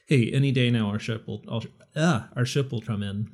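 talking with a swollen tongue; thick-tongued speech. Real, not acted. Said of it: "My tongue is swollen tonight".

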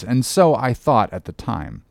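ordinary delivery

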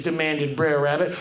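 plain reading voice

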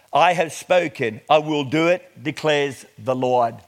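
measured, emphatic Bible reading; declaimed scripture with weighted key words. Acted. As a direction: read it out deliberately to a congregation. Reads scripture to congregation.

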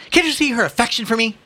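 high, pompous question; indignant Ignatius. Acted. Ignatius telling the policeman of maternal love, indignant. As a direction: point out the obvious with wounded grandeur.

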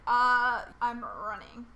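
loud startled blurt then a flat mock getaway; mock panic. Imagines fleeing the kidnapper.

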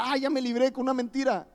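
high mock relief; mock relieved liar. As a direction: lampoon the liar's relief. Mocking sinner's relief. (mentiroso aliviado, imitado agudo)

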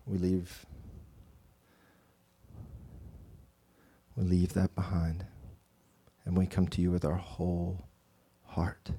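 hushed, reverent guided meditation; guided prayer. Acted. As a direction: ease them into stillness and prayer. Leads breathing and prayer.

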